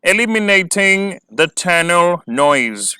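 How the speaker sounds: very slow, measured read-out of the question; slow dictation pace. Shown as a demonstration. Dictating heading.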